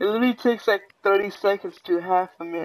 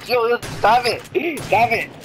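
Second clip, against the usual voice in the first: yelling stop; 5 semitones higher, 4 dB louder than usual. Real, not acted. Being attacked in game.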